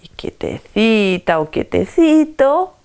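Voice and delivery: mock sugary, smiling tone; fake sweet smile. Shown as a demonstration. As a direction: put on a meek little smile. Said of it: "hablando con un tono y con una sonrisita". (sonrisita fingida, tono modosito)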